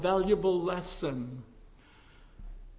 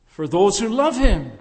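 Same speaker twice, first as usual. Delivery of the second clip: "love" pressed louder and falling; stress on love; 6 dB louder than usual. Shown as a demonstration. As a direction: lean hard on "love" to correct. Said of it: "Why didn't he say that?".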